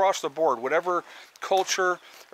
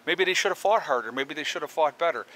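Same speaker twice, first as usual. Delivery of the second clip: sarcastic. Real, not acted. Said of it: "I'm kind of being sarcastic in that".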